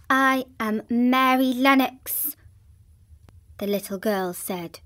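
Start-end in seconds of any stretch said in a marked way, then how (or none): 0.1-2.4 stiff and proud. Acted. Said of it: "drawing herself up stiffly".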